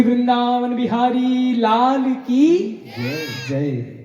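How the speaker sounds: slow, high, sobbing cry of praise. Acted. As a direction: wail the praise through tears. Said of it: "बाबा इतनी जोर से रोए".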